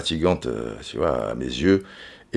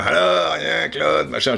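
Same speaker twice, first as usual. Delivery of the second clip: a host's voice pitched up, admittedly badly done; half-hearted TV host imitation, higher; bad Michel Drucker impression; 5 semitones higher than usual. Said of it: "je le fais très mal, hein, je, j'imite très mal". (imitation ratée d'un animateur télé, plus aiguë)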